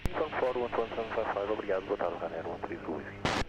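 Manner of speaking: thin crackly radio transmission; crackly military radio. Real, not acted. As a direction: voice squeezed through a radio. Pilot reads back over radio.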